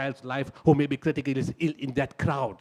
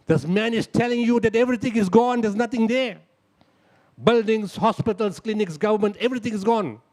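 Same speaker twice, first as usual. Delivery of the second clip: urgent explaining; 4 semitones higher, 4 dB louder than usual. Acted. Urging the teams to understand.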